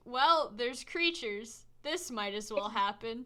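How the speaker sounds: deadpan and indifferent; impassive. Acted. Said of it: "Gare is as impassive as ever".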